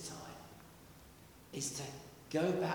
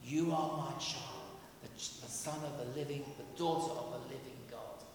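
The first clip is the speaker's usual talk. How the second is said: soft angel voice; 4 dB quieter than usual. Acted. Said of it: "angels whispering in your ear".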